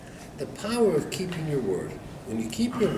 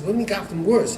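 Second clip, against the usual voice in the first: higher-pitched, mildly taken aback; incredulous question; 6 semitones higher, 3 dB louder, faster than usual. Retold or imitated. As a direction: play a rabbi questioning bad news. Rabbi hears the plan failed.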